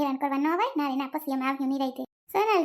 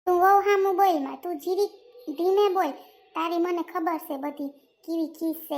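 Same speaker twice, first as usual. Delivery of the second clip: scolding. Acted. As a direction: snap at him to stop answering back. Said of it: "બા, તમે રાડું નાખો માં".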